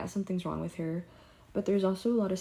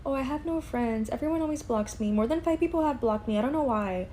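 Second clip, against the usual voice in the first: higher, lightly mocking coworker voice; 5 semitones higher than usual. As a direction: imitate her self-pitying complaint, a pitch up. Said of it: "she would say".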